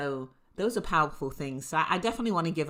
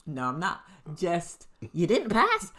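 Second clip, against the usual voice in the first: mock snide tone; 3 semitones higher, 7 dB louder than usual. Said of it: "just to tone like".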